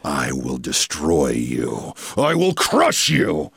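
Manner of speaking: slow, menacing villain threat. Acted. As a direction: growl it like a villain. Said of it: "tell somebody to their face".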